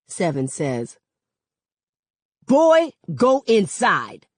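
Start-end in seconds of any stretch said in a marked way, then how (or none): 2.5-4.3 slow, loud, high stern order; stern command. Acted. Cop orders boy inside.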